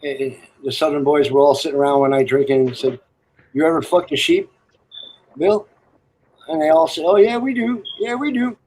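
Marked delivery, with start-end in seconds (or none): 3.5-5.7 voiced Southern boy. Telling a joke, hammed-up high Southern boy. 7.0-8.5 voiced Southern boy. Telling a joke, hammed-up high Southern boy.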